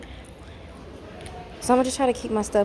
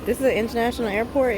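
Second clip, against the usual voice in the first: mock disbelief; 7 semitones higher, faster than usual. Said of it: "and I'm like".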